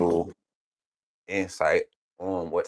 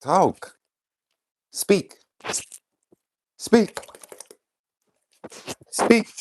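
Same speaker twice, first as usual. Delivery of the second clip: dog command; 13 semitones higher, much slower than usual. Real, not acted. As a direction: bark it up high to make the dog speak.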